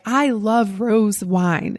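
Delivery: put-on slow, drawn-out country Southern accent; earnest Southern drawl, taken slowly. Eager student answering the sommelier's question, country Southern accent. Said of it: "in my country Southern accent".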